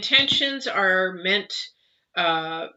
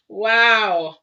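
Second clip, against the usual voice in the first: surprised; 2 semitones higher, 6 dB louder than usual. Real, not acted. Surprised by the card.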